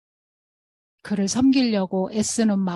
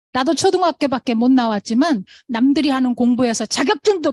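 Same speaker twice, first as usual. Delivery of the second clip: louder, half-shouted tough encouragement; retold scolding yell; 5 dB louder than usual. Partner yelling encouragement at her crying friend, loud. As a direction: hammer it home like a scolding friend. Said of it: "같이 소리를 지르더라고".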